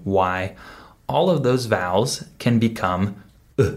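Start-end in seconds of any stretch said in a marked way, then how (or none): 3.6-3.7 short, unstressed "uh"; schwa sound. Shown as a demonstration. Teacher showing what all vowels can become, short schwa "uh". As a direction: give the bare reduced vowel "uh". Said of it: "this schwa sound when they're unstressed".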